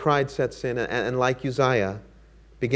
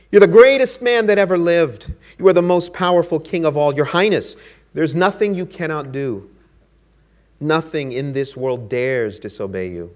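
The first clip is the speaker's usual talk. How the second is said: higher, louder gushing flattery that fades at the end; fawning courtiers; 3 semitones higher, 5 dB louder than usual. Acted. Courtiers gushing over their king, loudly fawning. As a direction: lay the praise on thick.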